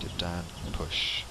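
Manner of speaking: slow, drawn-out movement cue; slow rhythmic cue. Shown as a demonstration. Teacher pacing the class through the dip, slowly. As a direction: stretch each word to match the dip. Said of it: "you can dip down into your knees to emphasize the push".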